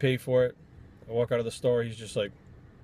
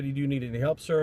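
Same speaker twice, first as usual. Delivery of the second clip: polite clerk. Retold or imitated. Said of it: "she didn't walk up to anybody and said".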